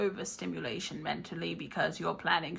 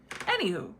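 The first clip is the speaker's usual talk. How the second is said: wizard voice. Acted. Wizard persona turns back to reading.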